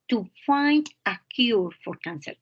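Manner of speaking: teacher models "find" with a long clear vowel; clear model reading. Shown as a demonstration. Teacher models the verb for a student, clearly. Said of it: "La pronunciación del verbo encontrar".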